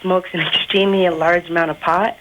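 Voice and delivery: put-on boy faking a young girl's voice. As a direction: pass yourself off as a teenage girl. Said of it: "do the chick voice again".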